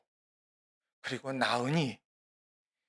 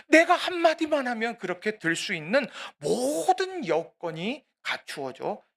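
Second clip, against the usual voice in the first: impassioned preaching; 6 semitones higher, 5 dB louder than usual. Real, not acted. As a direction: preach it with swelling urgency. Preacher builds the temptation.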